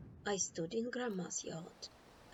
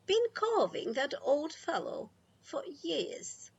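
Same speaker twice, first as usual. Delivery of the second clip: higher and louder, calling from another room; 6 semitones higher, 5 dB louder than usual. A narrator's reading. Grandma calling from the kitchen, loud. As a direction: project it across the house. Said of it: "Grandma called from the kitchen".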